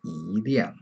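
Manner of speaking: 一 in 一辆 said with a rising second tone. Shown as a demonstration. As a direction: lift 一 upward before fourth-tone 辆 in 一辆. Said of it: "you change to second tone".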